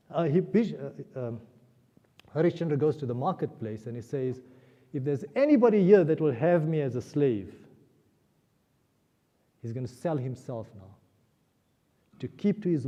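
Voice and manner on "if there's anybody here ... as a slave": raised voice, louder at the start; retold appeal thrown out to a crowd; calling out. Harishchandra offering himself in the marketplace, calling out.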